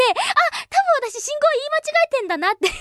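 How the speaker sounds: high-pitched mock dawning realisation; retold sudden realisation. Host retelling a mix-up with a foreigner, mock realisation.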